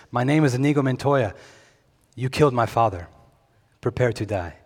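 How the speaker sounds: put-on light Spanish accent; a hint of a Spanish accent on a famous movie line; Inigo Montoya. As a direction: quote it with a slight Spanish swordsman's accent. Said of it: "to not do that with the accent".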